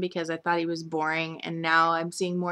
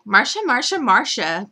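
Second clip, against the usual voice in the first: a hint of Jan Brady's higher, louder whine; Marsha Brady whine; 5 semitones higher, 7 dB louder than usual. The speaker echoing the Brady Bunch, lightly whiny. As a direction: whine the name like the famous line. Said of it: "pulls a Marsha Brady moment".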